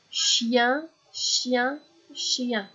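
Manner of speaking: "Chien" said three times, evenly spaced; "chien, chien, chien" in measured, separate beats; whole word repeated three times. Shown as a demonstration. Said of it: "Je le répète entièrement".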